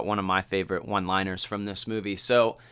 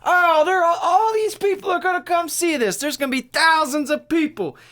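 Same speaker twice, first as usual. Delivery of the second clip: high, loud, giddy hillbilly farmer voice; squeaky, thrilled old country man; excited old farmer; 5 dB louder than usual. Retold or imitated. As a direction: play the farmer beside himself with excitement. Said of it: "and he's like".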